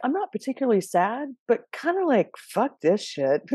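playful fed-up sigh of a voice; fed-up mock grumble. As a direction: sing it up, then drag out the curse in disgust. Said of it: "you're like".

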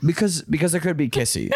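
mock little-kid imitation, amused; childlike. Mocking partner's kissy line, childlike and laughing. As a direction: tease it back like a child. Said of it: "an adult woman acting like a child".

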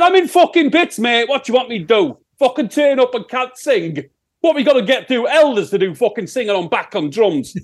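hammed-up Sheffield rant; mock indignant. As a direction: protest in exasperation as a Sheffield singer. Singer retells arguing with promoters.

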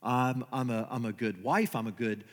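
lightly voiced self-pitying prayer; complaining prayer. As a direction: plead with God like a hurt, dutiful churchgoer. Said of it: "We all do this".

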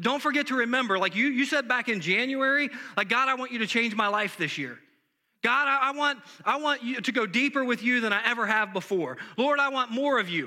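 insistent divine reply, rising as he builds; God's voice, insistent. Retold or imitated. God answering him in retold prayer.

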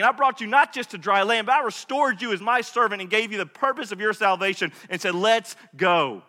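a lightly voiced God, firm and pleading with a stubborn prophet; God confronting Jonah. God reminds Jonah of his rescue, insistent reproach. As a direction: press Jonah with each memory, insistent but loving.

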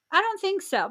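high squeaky indignant refusal. Real, not acted. Host refusing bad behavior, squeaky indignant voice. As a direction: pitch it up, squeaky and offended. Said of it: "Making me get all squeaky voice".

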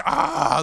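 high, pained "ah"; mock dying cry. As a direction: cry out as if mortally wounded. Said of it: "like, dying".

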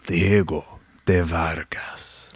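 put-on low, slow, whispered Latina accent; sexy Latina accent. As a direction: breathe it out seductively with Latina accent. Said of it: "I wanna do it one more time".

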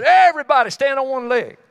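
mock chicken commander calling. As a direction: bark the order like a barnyard boss. Chicken leader calls out command.

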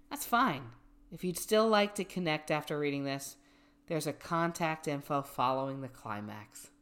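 measured, even reading voice; reading aloud. Acted. Reading a dating bio to a friend, measured reading voice. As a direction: read it out evenly, settling down at sentence ends.

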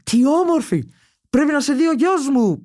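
mother gushing, pitched well up; high, admiring mock-mother exclamation; imitated enthusiasm. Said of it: "παθαίνει ενθουσιασμό η μάνα μου". (μίμηση ενθουσιασμένης μάνας, ψηλή φωνή)

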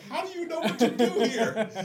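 put-on high, loud breathless movie girl; hammed-up high girl voice; mock girl's voice. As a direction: squeak it like the rescued girl. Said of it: "she's like".

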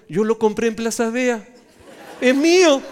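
loud, high, hammed-up protest; indignant claim of ownership. Pastor telling the brother the tree is his, hammed-up indignation. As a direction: build to a comic shout of possession.

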